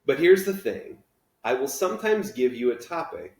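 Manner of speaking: teacher pitching the journals to his class, rising excitement; enthusiastic teacher. Acted. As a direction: promise the kids total freedom. Teacher voice of Mister Daniels.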